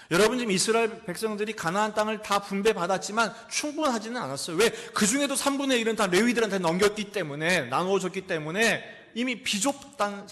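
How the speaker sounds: loud, high impassioned preaching; full-force preaching. Acted. Pastor preaching loudly to the congregation. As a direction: preach it out to the back pews.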